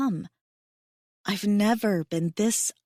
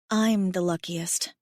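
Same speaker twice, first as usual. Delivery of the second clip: softly; slower than usual. Acted. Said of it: "I tell him softly".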